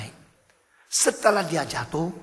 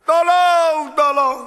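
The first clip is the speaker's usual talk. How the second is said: high, loud cry of tolong from a pit; crying for help; 11 semitones higher, 13 dB louder, much slower than usual. Acted. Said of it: "Dia berteriak".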